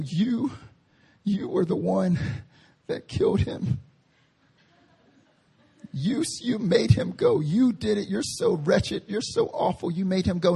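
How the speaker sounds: hushed, half-whispered mock accusation; accusing churchgoer. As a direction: imitate a scandalized accuser, under the breath. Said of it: "some churches ... and they say".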